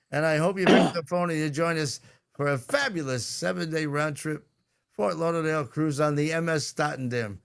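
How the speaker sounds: cheesy ad voice; bad announcer. Real, not acted. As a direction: sell the cruise like a pitchman. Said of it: "I sound like a bad announcer".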